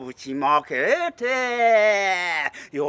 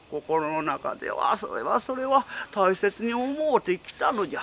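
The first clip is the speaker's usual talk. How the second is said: put-on old tengu voice; 2 semitones lower than usual. Tengu pleads with captive wife.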